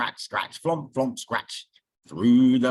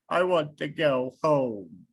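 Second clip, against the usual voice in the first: sobbing. Acted. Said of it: "sobbed Bear".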